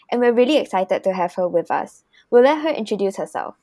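prepared host read of the topic; scripted podcast intro. Acted. Host introduces fast fashion topic and guest, scripted intro read. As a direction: announce the episode and guest from a script.

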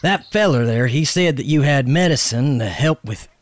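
loud, stammering, anxious plea; nervous stammer. Acted. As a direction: beg for help nervously. Nervous plea to medicine man.

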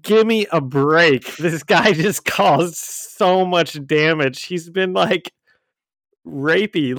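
laughing exasperated. Retold or imitated. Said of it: "And I was like".

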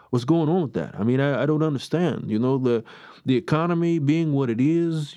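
a mock New York accent, barely there; bad New York accent. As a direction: rant like a fed-up New Yorker in a half-hearted New York accent. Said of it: "I'm gonna do my New York thing".

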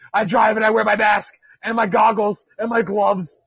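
hint of a smug mask wearer, half shouted; mocking mask wearer. Podcaster mocking drivers in masks, lightly shouted and smug. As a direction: puff up like a self-appointed hero.

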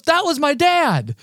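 high, slow, loud big reveal; imitating an excited fan's revelation; retold freak-out. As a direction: draw out the punchline as an ecstatic fan. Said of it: "absolutely freaks out".

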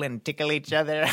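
laughing while tickled; being tickled. Acted. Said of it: "Z is now tickling Dak".

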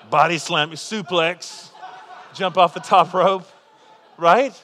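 laughing loud through a list of wrestling moves. Real, not acted. Preacher laughing to the congregation about wrestling kids. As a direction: giggle out the moves.

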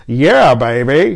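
slow, drawn-out playful catchphrase; Austin Powers. Acted. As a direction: draw it out as a spy-spoof catchphrase. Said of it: "That's kind of his thing".

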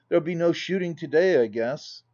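brisk, hearty country gentleman; Hattersley's voice. Acted. Hattersley complaining to the ladies about the weather, hearty voice.

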